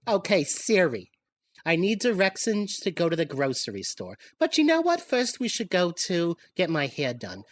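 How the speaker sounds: put-on high, loud confused old lady; rambling granny on the phone; grandmother voice. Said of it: "My grandmother picks up the phone and goes".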